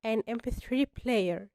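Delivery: an M P three player, very slow and deliberate; slow model answer. Shown as a demonstration. Teacher giving beginners the corrected phrase, very slow. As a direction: lay out each word for learners. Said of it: "آن مش آ".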